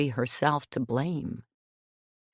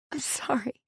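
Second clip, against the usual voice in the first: whispered apology; 11 semitones higher, 3 dB quieter than usual. A narrator's reading. Apologising after her outburst.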